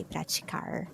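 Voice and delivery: praticar with an English final R; countryside R. Shown as a demonstration. Teacher shows the countryside praticar, English R. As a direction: curl the last R of praticar. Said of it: "countryside of São Paulo would say".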